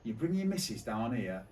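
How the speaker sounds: manager's rant building to a laughing yell; escalating comedy rant. Retold or imitated. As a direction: ramp up from stern to shrieking outrage. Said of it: "He goes".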